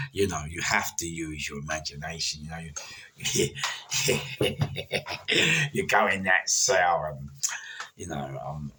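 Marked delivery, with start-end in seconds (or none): 3.5-5.7 high laugh. Real, not acted. Laughs about the block.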